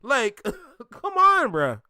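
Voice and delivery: high, rising squeal of despair; Kai Cenat impression. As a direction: mimic a streamer cracking up high. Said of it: "it's like the Kai Cenat moment".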